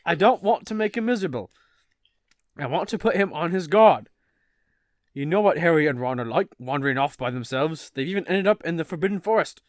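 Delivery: lightly put-on British, lilting; British accent. Reading Mr Weasley answering his wife, light British accent. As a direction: read the argument in amateur British. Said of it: "Gotta get into British character".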